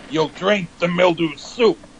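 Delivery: half-spoken lyric with some character; playing a character. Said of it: "I at least played a character".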